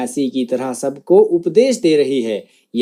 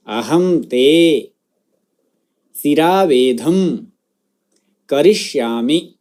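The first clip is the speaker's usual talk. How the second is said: word-by-word model. Shown as a demonstration. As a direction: pronounce each word separately for students to echo. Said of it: "मेरे बाद उस शब्द का उच्चारण".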